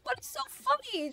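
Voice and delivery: high-pitched, drawn-out imitation of a baffled mom; hammed-up indignant question; mock indignation. Retold mom baffled by the laughing.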